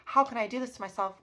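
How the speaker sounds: retold frustrated outburst; upset disbelief. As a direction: demand answers from yourself, upset. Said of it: "I was sad. I'm like".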